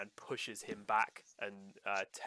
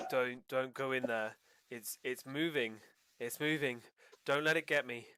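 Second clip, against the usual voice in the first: a frightened mumble building to near-yelling panic; the fear climbs with each repeat; rising panic; 3 semitones higher, 3 dB louder than usual. Acted. Prisoner repeats, growing agitated.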